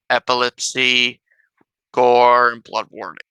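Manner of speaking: slow, stiff robot voice. Real, not acted. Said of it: "Why did I say epilepsy like a robot?".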